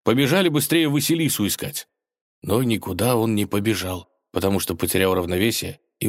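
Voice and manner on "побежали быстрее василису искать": higher, woozy hurried voice; a dizzy young hero urging his friend on; dazed mumble. A narrator's reading. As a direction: mumble it while still dizzy. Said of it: "пробормотал он".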